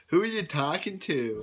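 creepy. Retold or imitated. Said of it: "Clark with his creepy smile is like".

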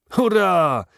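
high, loud cheer of triumph; secretary cheers the finished cannon plan, jubilant; cheering hurrah. A narrator's reading. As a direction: shout it out in triumph. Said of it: "zawołał J T Maston".

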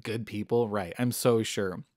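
the angels scoffing at Abraham's plea, softly sarcastic; mock sarcastic angels. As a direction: roll your eyes at good people. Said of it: "giggling to themselves".

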